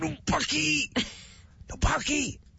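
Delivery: very high, hushed, strained quiet yell. Retelling yelling at the barking dog through the door: retelling a quiet yell. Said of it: "I'm doing a quiet yell".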